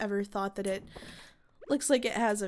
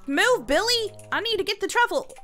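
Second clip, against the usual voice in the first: southern twang on a sudden higher, louder shout; southern accent; 8 semitones higher, 7 dB louder than usual. Real, not acted. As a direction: blurt it out with an unplanned southern accent. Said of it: "Why did I sound so southern for that?".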